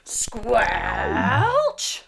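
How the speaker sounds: unvoiced rising squelch; whispered squelch. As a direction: breathe the squelch out. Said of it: "another big squelchy step".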